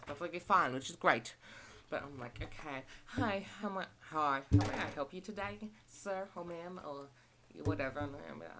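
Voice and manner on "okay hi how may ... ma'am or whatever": cashier voice. Shown as a demonstration. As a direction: greet a customer at the till. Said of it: "go through the routine again".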